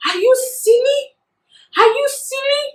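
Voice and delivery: high, loud furious yelling at him; livid mom. Retold or imitated. Mom confronting the librarian who targeted her daughter, furious high yelling. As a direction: tear into him like an outraged mother. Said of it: "she was livid".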